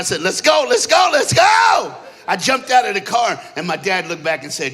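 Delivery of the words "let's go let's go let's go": high, loud, climbing shout; gleeful yell, higher on each repeat; excited urging. Retold or imitated. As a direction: hurry everyone along, escalating each time. Eager to get into church.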